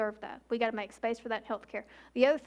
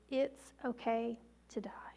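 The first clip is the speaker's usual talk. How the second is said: whispered permission; 6 dB quieter, slower than usual. Shown as a demonstration. Gentle permission to the dying.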